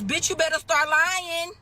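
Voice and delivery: sassy loud punchline; punchy advice. Acted. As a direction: deliver it sassy and hard.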